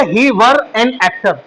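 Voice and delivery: very slow, word-by-word English; slow teacher's model sentence; slow dictation. Shown as a demonstration. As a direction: dictate the sentence slowly to students. Teacher dictates English translation slowly.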